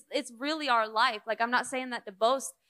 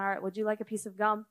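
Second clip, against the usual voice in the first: quick persistent offer; faster than usual. Retold or imitated. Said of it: "you just keep on".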